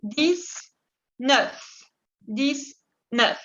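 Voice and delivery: "Dix-neuf" como "disnéf", la x como s. Shown as a demonstration. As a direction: decir "Dix-neuf" con s sorda. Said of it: "como una S". ("Dix-neuf" con la x sonando ese)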